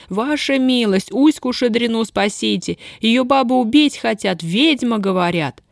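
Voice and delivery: a girl's high retold wailing plea. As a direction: beg her ladyship, half-wailing. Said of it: "голосю". (причитая, умоляет барыню)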